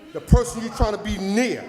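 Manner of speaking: the person you're trying to be near shouted loud; shouting at officials. Real, not acted. Speaker at a public meeting shouting at officials. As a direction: raise your voice and call them out.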